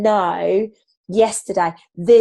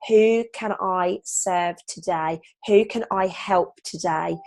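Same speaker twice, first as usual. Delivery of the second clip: calm intention; slower than usual. Shown as a demonstration. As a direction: model the gentle morning intention slowly. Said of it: "I want you to place your hand".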